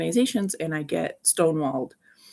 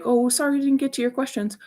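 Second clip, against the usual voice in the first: high, fast, breezy brush-off; mocking a dismissive host's fake apology; 7 semitones higher, faster than usual. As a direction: toss off a fake sorry, quick and high. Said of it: "and then they're like".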